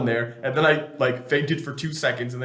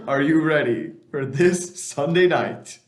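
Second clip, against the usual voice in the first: slow and loud, spelled out; slow repeat; 3 semitones higher, 6 dB louder, slower than usual. Acted. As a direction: repeat it slowly and louder. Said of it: "I said".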